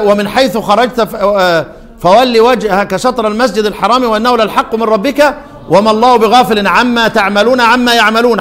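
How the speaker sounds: measured chanted verse reading; Quran recitation. Acted. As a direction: recite the verse in tajweed style.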